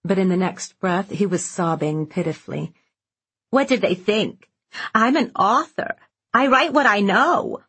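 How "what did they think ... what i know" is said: mild retold rage. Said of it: "he had raged".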